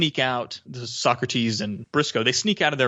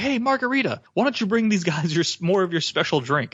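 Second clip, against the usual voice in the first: lightly voiced general calling the waitress; mock yell; 6 semitones higher than usual. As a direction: call her name out over the room in a raised, higher voice. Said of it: "he yells over to one of the waitresses".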